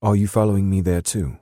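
put-on British accent, voice lifted high. A narrator's reading. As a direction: question him in a British accent. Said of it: "she said in her soft British accent".

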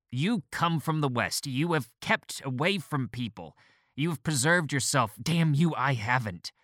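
high, rising shrill voice; a doctor losing composure, voice climbing. A narrator's reading. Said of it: "His voice had indeed become shrill".

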